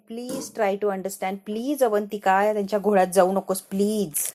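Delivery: slow, drawn-out retold plea; pleading. Sister-in-law begging her not to fall for their trap, pleading. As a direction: plead with stretched-out words, mildly acted.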